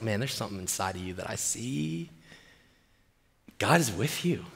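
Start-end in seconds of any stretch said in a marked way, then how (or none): 0.0-2.1 low, very soft voice of God; hushed encouragement. Acted. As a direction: speak low and softly to someone afraid. God speaking to cowering Gideon.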